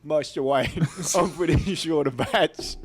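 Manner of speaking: lightly voiced butler; a hint of a discreet butler, breaking into laughs; mock butler reporting to his master; Alfred. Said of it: "What if Alfred's like".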